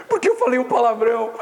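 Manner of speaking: high-pitched mock wail; mock tearful. Crying player confessing the swear word to cousin, mock tearful. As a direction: confess it in a comic tearful whine. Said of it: "Então por que você tá chorando".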